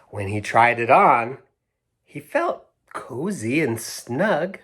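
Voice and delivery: slow, expressive picture-book reading; reading to children. A narrator's reading. Reading the story to Hazel and Pearl, slow and expressive. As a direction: read it like bedtime storytime for kids.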